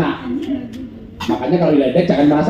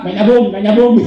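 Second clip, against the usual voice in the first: mock friend laughing; 3 semitones higher, 4 dB louder than usual. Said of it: "temanku bilang".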